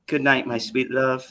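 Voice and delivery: low, soft, lovey-dovey goodnight; tender sweet-talk. Real, not acted. Signing off to a sweetheart, tender and low. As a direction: say it low and full of feeling. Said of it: "And you sounded like that?".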